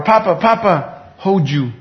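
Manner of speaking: lightly voiced granddaughter calling; toddler voice. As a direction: coo it like a toddler. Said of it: "Or she'll say".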